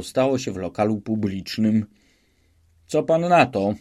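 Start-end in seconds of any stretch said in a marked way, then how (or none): 2.9-3.7 a higher, louder gloating challenge; triumphant question. Acted. Police official gloating over Szwejk, triumphant question. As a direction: ask it as if you've just won. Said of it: "zwycięsko zapytał pan".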